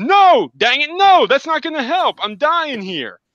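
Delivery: shrill, high, agonized, pleading cry with swooping pitch. Recounting a video game scene, voicing a wounded man: mock agonized screaming. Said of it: "screaming in agony".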